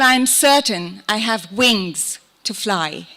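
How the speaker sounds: measured recital, pausing between phrases; poetry reading. Acted. Poet shares cocoon poem with audience, measured recital. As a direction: let each phrase of the poem stand apart.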